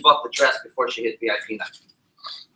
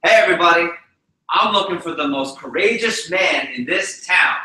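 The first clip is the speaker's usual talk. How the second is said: bullhorn announcement; 3 semitones higher than usual. Retold or imitated. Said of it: "pulled his bullhorn out and said".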